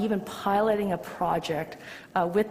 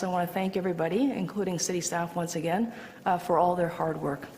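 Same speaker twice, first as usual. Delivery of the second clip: winded, catching breath between phrases; short of breath from asthma. Real, not acted. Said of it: "I'm a little bit, uh, winded".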